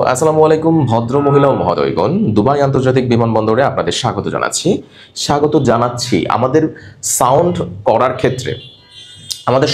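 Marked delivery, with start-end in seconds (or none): 0.1-6.2 smooth, formal cabin greeting; announcement read. Shown as a demonstration. Teacher demonstrating a Bangla arrival announcement. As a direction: welcome the passengers to Dubai. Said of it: "একটা tone ব্যবহার করতে হবে".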